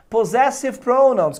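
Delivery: Possessive said with a z sound for the double s; slow, loud model of Possessive pronouns, S's voiced as z. Shown as a demonstration. Teacher models English term for students, z sound in Possessive. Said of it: "a pronúncia desses dois S's aqui é som de Z".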